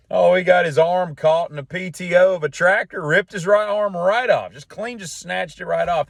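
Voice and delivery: high, eager gossip voice; gossipy retelling. Retold or imitated. Friend telling the barbershop about Bob, high gossip. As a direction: dish out the story with relish.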